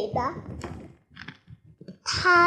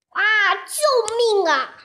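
pleading for help; 3 semitones higher, 3 dB louder than usual. Acted. Caught wolf begging the hunter, mock panic. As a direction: beg the hunter to let go.

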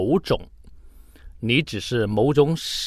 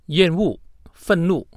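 mock disgust; 6 semitones higher than usual. Shown as a demonstration. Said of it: "注意这种语气哈".

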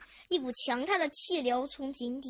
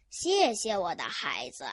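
touched; 6 semitones lower than usual. Acted. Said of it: "故事爷爷非常感动".

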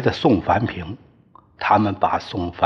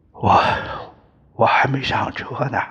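faltering dying words, a little higher; broken, halting speech; 4 semitones higher than usual. Acted. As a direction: gasp it out in broken pieces. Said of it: "断断续续地说". (断断续续、气息微弱地说)

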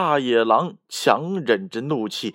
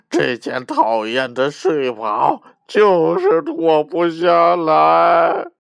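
a lightly voiced wolf mumbling without teeth, ending in a slow loud shout; toothless wolf; 3 dB louder, slower than usual. Fallen wolf complaining to the girl, mumbling then shouting. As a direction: grumble miserably, then burst out. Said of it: "连话都说不清楚了".

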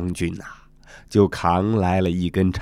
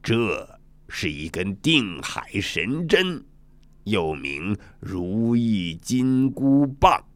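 a hint of an old ruler; Dragon King; 2 semitones lower than usual. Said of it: "龙王指着一根闪闪发光的宝物说".

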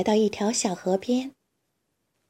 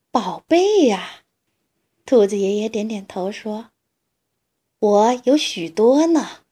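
put-on old grandpa rabbit; 4 dB louder than usual.

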